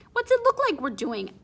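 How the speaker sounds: a would-be tough line that comes out high and squeaky; squeaky tough try. A narrator's reading. Boy answering the girl at the fence, squeaky tough. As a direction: try to sound tough, voice cracks upward. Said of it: "It was supposed to sound tough, ... came out kinda squeaky".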